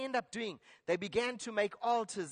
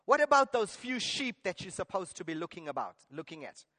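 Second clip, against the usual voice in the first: angry brother; 3 semitones lower, 3 dB louder than usual. Retold or imitated. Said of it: "he was angry".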